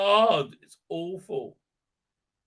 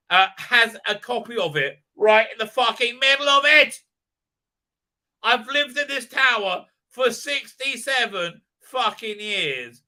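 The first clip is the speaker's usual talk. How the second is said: incredulous rant; 5 semitones higher, 4 dB louder than usual. Real, not acted. Ranting about the tower.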